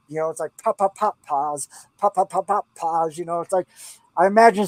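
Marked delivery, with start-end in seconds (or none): 0.6-3.2 rhythmic pops. Shown as a demonstration. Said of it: "da, da, da, da".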